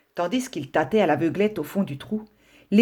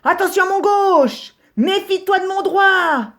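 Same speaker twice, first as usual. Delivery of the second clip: much higher, cocky fighter's warning; boxing boast; 13 semitones higher, 4 dB louder than usual. Acted. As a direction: brag about your left and right hooks. Rabbits brawling, boasting punches.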